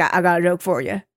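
lightly imitated Southern old-timer; a hint of an eager old Southerner, stammering into it; Southern old man. Old guy approaching the camera with a joke, lightly Southern. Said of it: "they're also very Southern".

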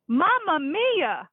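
high, slow hammed-up Italian driver; mock Italian accent. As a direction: ham up an Italian cabbie apologizing.

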